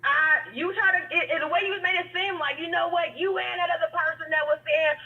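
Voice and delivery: caller's voice down a phone line; over the phone. Real, not acted. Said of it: "I just wanted to call in".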